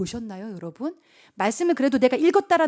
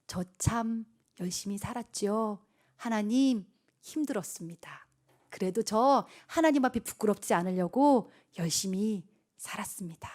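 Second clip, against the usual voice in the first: humble confession; 3 semitones lower, 5 dB quieter than usual. Acted. Believer telling God they tried hard, softly. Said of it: "그 할 말은 있어야 돼".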